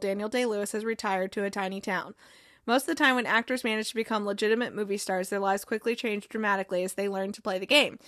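even, steady article read; reading aloud. Real, not acted. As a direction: read out the article with little pitch movement.

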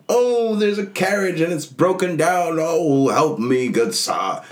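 high, slow pleading damsel; damsel in distress. Retold or imitated. Gamer mimics a fake stranded traveler, high and pleading. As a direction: plead for help like a stranded lady, high and drawn out. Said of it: "and I was like".

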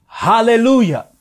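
high, loud shout of praise; crying out. Acted. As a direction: cry it out like a roaring crowd. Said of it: "crying out".

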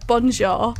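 French with no attempt at a French accent; effortless English-accented French. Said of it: "no effort to, to pronounce it".

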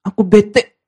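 mildly sulky mock complaint. Preacher mimics someone in a huff, mildly sulky. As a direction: play at being fed up, lightly. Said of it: "Ya bete".

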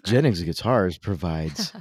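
measured radio ad delivery; announcer-style guitar advertisement; sponsor ad read. Real, not acted. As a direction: read the sponsor copy, stepping down at the end.

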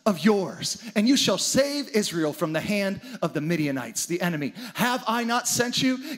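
a hint of a commanding angel; lightly voiced angel sending Gideon out; grace-filled angel. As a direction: urge him on gently but firmly. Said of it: "The angel turns to him and says".

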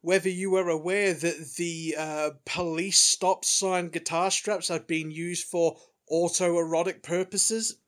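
lightly voiced nerdy journalist pushing a question; eager reporter voice. Reporter asking press question.

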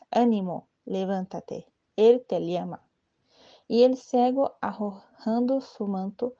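solemn Gospel reading voice; scripture reading. Acted. Reading the Gospel of Mark to the faithful, solemn lector reading. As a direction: read it as a lector at Mass. Reads Gospel passage in liturgy.

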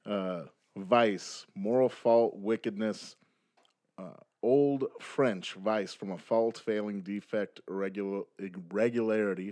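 numb lip, slightly slurred; speaking through a numb mouth; numb from the dentist. Real, not acted. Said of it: "my mouth is a little bit off of me today 'cause I went to the dentist".

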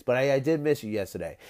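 stuffy, scratchy voice from a cold; nasal scratchy voice. Real, not acted. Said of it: "pardon me for my nasally, scratchy voice".

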